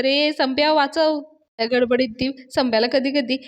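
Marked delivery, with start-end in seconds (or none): 0.0-1.2 higher, drawn-out mock cry; mildly acted plea for rescue; retold cry for help. Payal calls Sambhya as she is hit, mock cry. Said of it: "पायल ओरडत असते".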